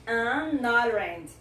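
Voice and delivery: AN ORANGE slowly joined as 'an-norange'; slow demo gliding the N into ORANGE; linking sound. Shown as a demonstration. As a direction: stretch AN into ORANGE for learners. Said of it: "fazer um linking sound na palavra seguinte".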